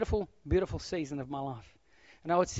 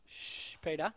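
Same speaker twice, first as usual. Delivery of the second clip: soft hushed shush with his name; calm him down quietly; hushing Peter; 10 dB quieter, slower than usual. Pretend. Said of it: "I try to work it all out".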